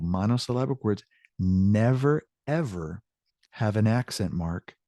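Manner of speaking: never rising, ever falling away; stress on never. Shown as a demonstration. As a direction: hit never hard when you give the rule. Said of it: "teacher stressing the rule".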